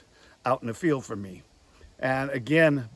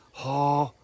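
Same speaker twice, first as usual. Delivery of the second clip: goose moan. Shown as a demonstration. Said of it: "regular moan".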